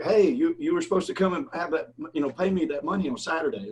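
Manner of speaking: a buddy hammering a debtor on speakerphone, demanding; demanding callout. Retold or imitated. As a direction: call him out on the overdue debt. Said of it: "so he's like".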